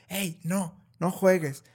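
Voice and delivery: a hint of a parent snapping at a child to stop playing; scolding parent. Mother scolding her playing child, mild mock reprimand. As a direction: lightly mimic a strict mom cutting off the game.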